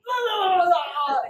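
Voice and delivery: loud, high babbling rush; word vomit. Retold or imitated. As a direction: spill it all out loudly. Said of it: "you word vomit to your pastor".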